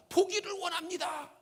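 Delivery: acted fervent request; pleading answer. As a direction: answer out earnestly like a petitioner. Blind man answers Jesus eagerly.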